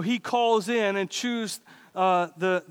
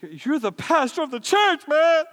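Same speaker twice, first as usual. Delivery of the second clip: rising, louder "man" at the end; mock congregation jab; 6 semitones higher, 4 dB louder than usual. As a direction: tease the pastor, climbing in pitch. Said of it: "Some of you looking at me like".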